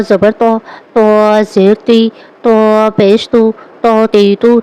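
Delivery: heavy, full-mouthed ط in تو تی تو. Shown as a demonstration. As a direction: round and thicken the ط of تو. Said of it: "پہلا باریک اور دوسرا پر یعنی موٹا".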